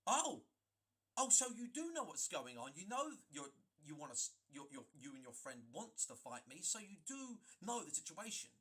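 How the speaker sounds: retold heated comeback; angry retort. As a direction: call him out, heated. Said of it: "And I'm like".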